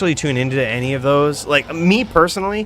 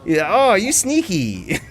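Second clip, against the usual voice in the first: higher-pitched imitation of an Asian accent; mock Asian accent; 6 semitones higher, slower than usual. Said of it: "Raiden's got the Asian accent".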